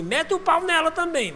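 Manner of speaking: high, loud mock order, half laughing; mother's hard advice. His mother urging a spanking, loud laughing mock command. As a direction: ham up grandma's tough-love command. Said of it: "Já minha mãe ensinava".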